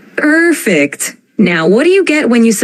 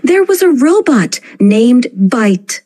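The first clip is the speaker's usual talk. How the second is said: amplified drama; 3 semitones higher than usual. Acted. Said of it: "Let's amplify the drama".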